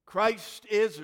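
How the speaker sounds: loud, high proclamation; Easter call. Real, not acted. Pastor calling out the Easter greeting, loud and high. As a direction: call it out to the whole church.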